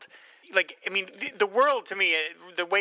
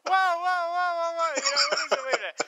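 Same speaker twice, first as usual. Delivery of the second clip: alarmed whoa; 12 semitones higher than usual. Retold or imitated. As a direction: stop everything in a rush of alarm. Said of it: "Albert Brooks is".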